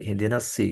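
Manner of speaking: "ihdinas si" with a plain light s; sad read as sin. Shown as a demonstration. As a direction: recite "ihdinas si", thin s instead of heavy sad. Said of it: "sodnya dibaca sin".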